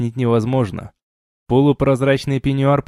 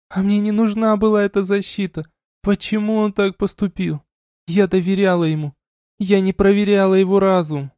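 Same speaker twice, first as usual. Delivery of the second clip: lightly voiced tearful woman, higher; a hint of broken reproach; raised, hurt questioning; hurt young woman; 9 semitones higher than usual. A narrator's reading. Elina insisting.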